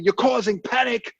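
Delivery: mock angry reply. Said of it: "they get really angry".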